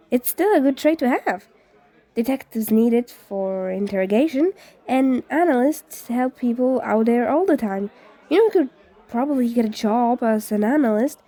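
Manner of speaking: lightly voiced cheerful young guy; upbeat friendly boy. Shirakumo character voice.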